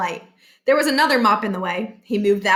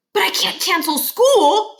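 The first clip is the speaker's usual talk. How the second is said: higher, torn inner voice; anguished principal; 9 semitones higher, 3 dB louder than usual. Acted. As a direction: plead with himself. Barkin torn.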